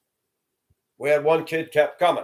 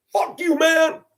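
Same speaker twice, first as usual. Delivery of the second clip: high, defiant yelled retort; a teen yelling back at the man who scolded him; 4 dB louder, slower than usual. Retold or imitated. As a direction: fling it back with attitude.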